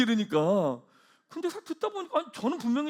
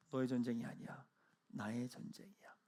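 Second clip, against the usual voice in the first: soft, lower whisper, slowing down; hushed whisper from God; 9 semitones lower, 16 dB quieter than usual. Acted. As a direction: breathe it like a secret promise. Voicing God's words.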